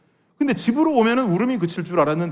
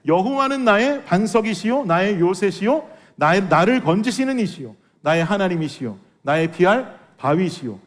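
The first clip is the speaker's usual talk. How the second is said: scripture recitation. Acted. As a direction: recite the psalm with reverence. (천천히 엄숙하게 낭독하는 시편)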